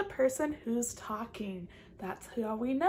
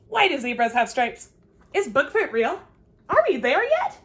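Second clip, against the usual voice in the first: loud, rising curious questions; eager questions; 5 dB louder than usual. Acted. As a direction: pepper them with questions. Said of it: "she just asks questions".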